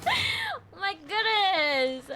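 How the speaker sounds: slow drawn-out panicked cry. Real, not acted. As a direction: let the panic stretch the words. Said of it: "I'm in, like, a state of panic".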